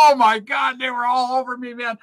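high, loud yelp of pain; shouting in alarm. Retold or imitated. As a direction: burst out high and loud as if stung. Recalling fire ants biting him.

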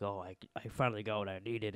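low, quiet villain quote; Savitar. Retold or imitated. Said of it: "Is that your Savitar voice?".

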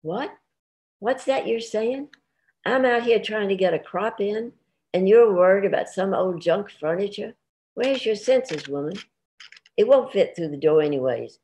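can't believe what she's fretting over; incredulous scolding. Acted. Farmer scolding his wife over the junk furniture, incredulous and high.

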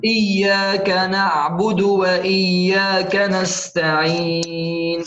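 slow, measured tajweed recitation with long held vowels; Quran recitation. Shown as a demonstration. Teacher recites the verse for students, slow measured recitation. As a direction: recite it slowly, drawing out the final syllable.

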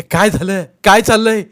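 high, loud startled shouts; panic, what is happening; alarmed cries. Acted. Villagers caught off guard, alarmed shouting.

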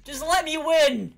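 drawn-out loud groan of frustration; exasperated yell. Real, not acted. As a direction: beg the game, loud and slow. Exasperated at the game.

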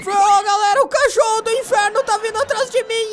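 panicked high shouting while fleeing; being chased. Real, not acted. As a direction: yell in panic, running away. Hell hound chasing him.

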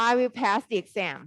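very slow, clear English clause; slow model sentence. Shown as a demonstration. Teacher showing the students the clause, very slow. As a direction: drag each word out for the class. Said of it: "อ่า".

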